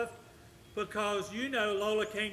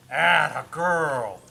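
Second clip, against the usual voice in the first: loud praise; 4 semitones lower, 9 dB louder, much slower than usual. Real, not acted. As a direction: cheer the dog on, stretching it out. Praising dog on loose leash.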